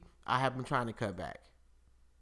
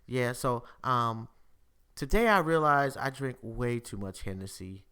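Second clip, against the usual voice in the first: deadpan. Retold or imitated. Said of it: "deadpan voice".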